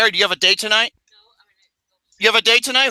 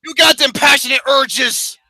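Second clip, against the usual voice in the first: loud mocking tease; 3 semitones higher, 3 dB louder than usual. Real, not acted. Loudly teasing his mother.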